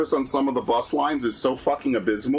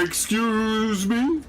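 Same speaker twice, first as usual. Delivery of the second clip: prissy mock; 7 semitones higher, much slower than usual. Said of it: "echoing the rude guy".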